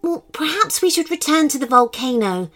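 helpful. Acted. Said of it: "suggested the Firefox helpfully".

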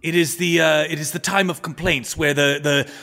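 put-on halting, formal old courtier; old adviser, insistent. Adviser leans forward to explain the complaints, formally insistent. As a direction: patiently remind the ruler, in measured pieces.

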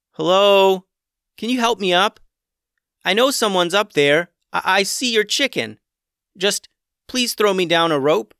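put-on boy pleading from the bottom of a well. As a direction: beg to be pulled out of the well. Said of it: "the boy pleaded".

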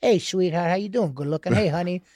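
low, soft, matter-of-fact endearments; quietly casual sweet talk, played straight; sincere, unjoking greeting. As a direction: imitate a father's earnest, low-key hello. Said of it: "without it being a joke".

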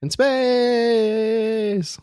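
high, booming trailer tagline; trailer announcer. Pretend. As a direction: shout it like a movie trailer. Mock trailer tagline shout.

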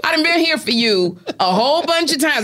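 acting out a fed-up telling-off; fed-up friend. Woman telling a crying girlfriend to stop, mildly exasperated. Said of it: "That's what my voice gonna sound like".

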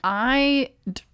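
pausing between hiccups; words broken up by hiccups. Real, not acted. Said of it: "Sorry for the hiccups".

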